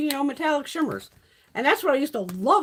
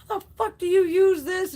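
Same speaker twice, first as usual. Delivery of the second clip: high, loud mock outburst; imitated friend losing it; 10 semitones higher, 5 dB louder than usual. Girlfriend struggling with eyeshadow, mimicked losing her shit. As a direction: act out a friend's frustrated fit. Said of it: "she's, like, losing her shit".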